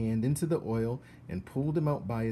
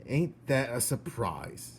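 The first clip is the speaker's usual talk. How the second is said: sarcastic. Acted. Cook sneers at Mig.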